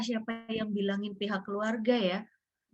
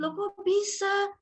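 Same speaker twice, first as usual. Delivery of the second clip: high, drawn-out shocked question; acted stunned protest, high and slow; retold disbelief; 12 semitones higher, 3 dB louder, much slower than usual. Disbelief at hearing baby has died.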